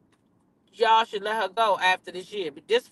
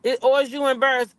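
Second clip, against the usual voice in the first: incredulous retort; 7 semitones higher, 3 dB louder than usual. Retold or imitated. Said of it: "I'm like".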